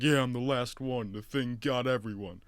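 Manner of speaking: same voice as the other character, barely changed; retold movie character. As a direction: recount it in character with punchy stresses. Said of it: "They sound exactly the same".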